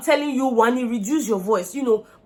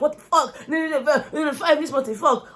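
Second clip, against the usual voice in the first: higher-pitched, laughing through shocked swearing; laughing disbelief; 4 semitones higher than usual. Retold or imitated. Housemate reacting to the early-morning chaos, laughing in disbelief.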